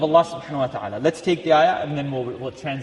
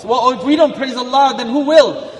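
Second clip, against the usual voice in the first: rising emphatic; 7 semitones higher, 7 dB louder than usual. Real, not acted. Rising rhetorical question.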